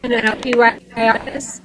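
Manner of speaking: glitchy, dropping phone connection; choppy call audio. Real, not acted. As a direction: voice cutting out over the line. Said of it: "you still cut out just a little bit".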